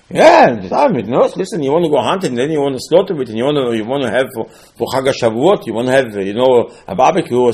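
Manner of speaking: loud sarcastic lay-out of the plan; mock the hunter's excuses; loud mocking barbecue plan.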